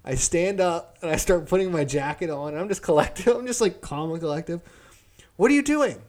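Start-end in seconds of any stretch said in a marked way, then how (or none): 5.4-6.0 high alarmed question, mock shocked; startled boss. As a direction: squeak it like she can't believe it. Boss voiced in retold quarrel.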